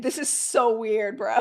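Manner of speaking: half-laugh at how weird he is; laughing disbelief at a preening man. Retold or imitated. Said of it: "I'd be like".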